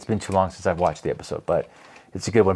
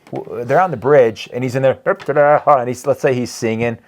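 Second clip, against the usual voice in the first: ordinary talk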